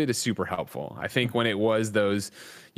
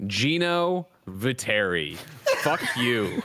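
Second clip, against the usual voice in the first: hammed-up outrage, laughing through it; fake-tell off a rival with a grin; playful mock fury at Gino; mock furious callout; 4 semitones higher, slower than usual.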